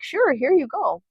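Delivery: high, drawn-out motherly voice; indulgent mother. Retold or imitated. Mother handing her daughter an apple, indulgent.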